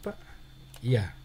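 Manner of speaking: ordinary talk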